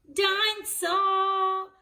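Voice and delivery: high, slow, sing-song shout of dinosaur; toddler George shout. A narrator's reading. Little George yells his favourite word, sing-song shout. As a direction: belt it out like a delighted toddler.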